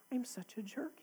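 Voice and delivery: imitating a friend's ashamed whisper; whispered confession. Coworker admitting his fight with his daughter, in a retold whisper. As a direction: breathe it out like a guilty secret.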